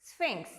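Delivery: "sphinx" with PH sounded as F; model pronunciation. Shown as a demonstration. Teacher reading the third word, careful model pronunciation. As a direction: say "sphinx" as SFINKS, on its own. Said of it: "How do you read it?".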